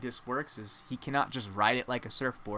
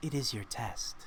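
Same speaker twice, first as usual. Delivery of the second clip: feminine creature voice; 5 dB quieter than usual. Voicing a Pegasus that answers the players: female voice. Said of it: "female voice says".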